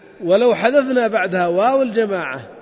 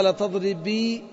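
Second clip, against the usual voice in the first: slow demo; 4 dB quieter, slower than usual. Shown as a demonstration. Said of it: "أصلها".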